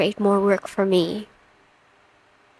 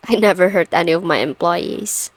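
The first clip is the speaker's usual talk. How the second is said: ordinary talk, nothing marked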